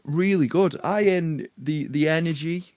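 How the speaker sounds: enthusiastic. Real, not acted. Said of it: "you could feel the fun".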